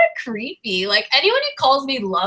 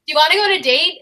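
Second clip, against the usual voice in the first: mock suitor; 6 semitones higher, faster than usual. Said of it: "Harlow would be like".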